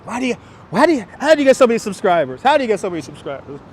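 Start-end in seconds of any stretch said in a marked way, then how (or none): 0.0-2.4 higher, quicker mock voice of a nosy stranger; lightly voiced curious stranger; mock nosy asker. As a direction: parrot the pestering question, a bit higher. Mimicking people asking him.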